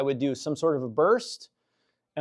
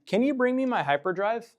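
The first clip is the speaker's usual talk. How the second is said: calling from far away; 7 semitones higher than usual. Real, not acted. Calling to Flock across room.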